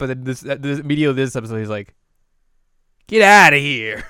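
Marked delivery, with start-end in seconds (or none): 3.1-4.0 loud, higher mock yell; a big cartoonish get-lost. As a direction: shout him away, hammed-up. Retelling Inuyasha shooing someone.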